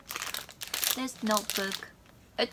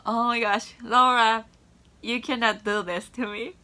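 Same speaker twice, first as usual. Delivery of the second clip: higher, louder, squealing at the gift; overwhelmed excitement; 4 semitones higher, 10 dB louder than usual. Real, not acted. Vlogger opening a surprise gift from her friend, overjoyed squeal. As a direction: gasp out her name, thrilled and stunned. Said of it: "I almost wanna cry".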